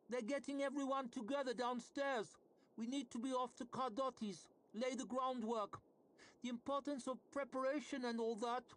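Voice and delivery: talking through a mouthful of food; mouth full. A narrator's reading. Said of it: "It sounded as if she was talking with her mouth full".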